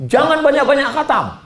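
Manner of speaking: high, loud, fast lecturing ustadz; mock stern preacher. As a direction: scold the crowd like a strict preacher. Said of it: "ada ustadz yang ngomong".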